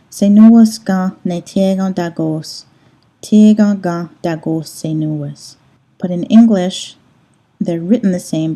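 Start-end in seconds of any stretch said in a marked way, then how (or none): 0.1-5.6 "Senuas ga ne tega dagos. Tega ga dagos senuas." read slowly and evenly, slow; two sentences said slowly and carefully; Ganyangeha word order demo. Shown as a demonstration. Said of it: "two completely different sentences here".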